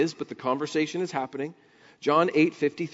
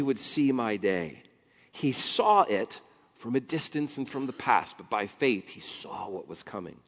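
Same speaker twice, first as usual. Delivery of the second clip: calm Jesus voice. Retold or imitated. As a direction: answer gently and steadily. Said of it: "Jesus speaks".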